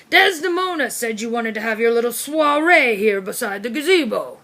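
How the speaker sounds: put-on blustering old officer, jovial; hearty colonel who barks his questions; pompous military dog. Corgi Brigadier reassuring Byrne about his height, blustering.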